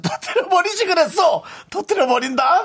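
Hulk-style shout. Acted. Listener's Hulk pose message.

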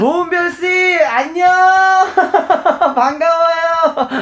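slow, high, sweet hello; sweet greeting to a fan. Acted. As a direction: greet her sweetly and slowly. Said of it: "딸에게 손 한번 흔들어 주세요".

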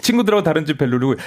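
usual speaking voice

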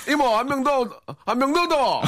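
high Gyeongsang call to the waitress; imitated Gyeongsang dialect. Host replays the guest's drink order, imitated Gyeongsang dialect. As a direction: mimic a Gyeongsang man ordering, pitched high. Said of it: "이렇게 하다가".

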